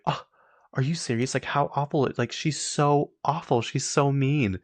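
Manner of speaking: high-pitched, scandalized reaction; appalled gasping. Retold or imitated. Friend reacts from the back to the show, high appalled gasping.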